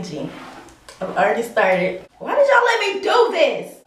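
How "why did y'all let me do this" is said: loud, high plaintive outburst; dismayed wail. Real, not acted. To viewers after cutting own hair, dismayed wail. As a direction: wail it accusingly at your audience.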